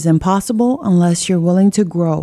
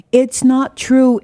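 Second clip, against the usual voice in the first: high, slow cry of protest; yelling; 7 semitones higher, slower than usual. Acted. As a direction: shout it out, pitch way up. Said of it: "yelled out loud".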